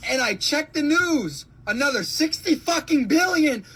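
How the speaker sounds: high-pitched, exasperated rant; outraged disbelief. Real, not acted. Worker reads of billions sent abroad, high outraged disbelief.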